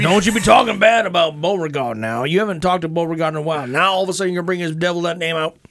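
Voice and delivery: mock Kentucky colonel. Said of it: "every voice turns into a Kentucky Colonel".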